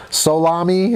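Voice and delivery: "Solami" as so-LAH-mee, rising like a question; tentative pronunciation. Shown as a demonstration. Host checking a viewer's surname, "Solami" as questioning so-LAH-mee. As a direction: try out "Solami" with a clear long O first. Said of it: "is that how you pronounce it?".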